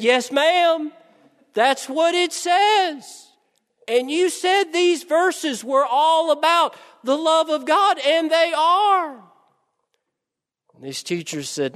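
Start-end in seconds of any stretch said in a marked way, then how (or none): 0.0-9.3 put-on high, earnest child's answer; polite little girl. Little girl politely insisting to her teacher, high and earnest. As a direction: stand your ground sweetly as the little girl.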